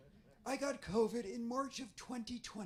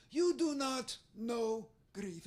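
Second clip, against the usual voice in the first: put-on slow, stern foreign accent; Israeli accent; slower than usual. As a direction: drag out the verdict with a foreign lilt. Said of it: "So sometimes I try to mimic her".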